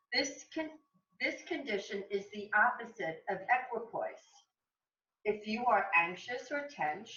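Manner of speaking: measured, projected reading aloud; inspirational reading. Acted. Yoga teacher reads from a meditation book, measured reading. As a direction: read the passage out deliberately, phrase by phrase.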